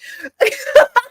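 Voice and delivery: high burst of laughter; real laugh. Real, not acted. Host amused she has talked forty-five minutes, real laugh. Amazed at talking so long.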